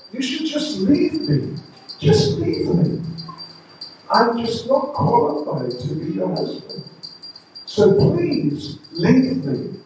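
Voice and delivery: high, pleading insistence; Krishna. Acted. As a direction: urge it high, slowing on the last plea. Krishna voiced, pleading to be left.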